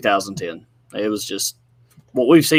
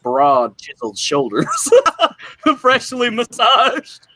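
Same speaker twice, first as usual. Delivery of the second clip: Queasy impression. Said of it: "let me do a Queasy impression".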